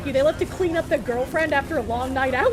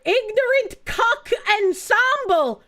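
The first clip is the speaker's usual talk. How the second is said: mocking protester voice; 7 semitones higher, slower than usual. Reading protest sign mockingly.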